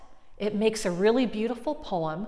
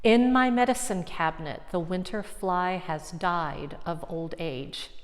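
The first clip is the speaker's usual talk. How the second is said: poem reading. Shown as a demonstration. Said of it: "I'm gonna read that one".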